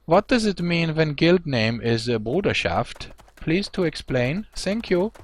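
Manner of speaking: high, loud hammed-up German accent. Streamer asking his German viewers, in a mock German accent. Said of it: "ask them with the German accent".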